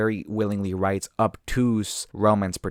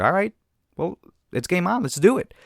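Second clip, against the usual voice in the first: much higher, bright game-on cheer; peppy girl; 9 semitones higher, 3 dB louder than usual. Retold or imitated. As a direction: hype him up like a coach. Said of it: "And she's like".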